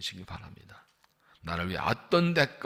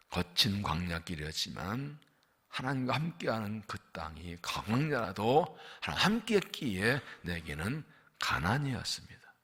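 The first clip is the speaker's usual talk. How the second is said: ordinary talk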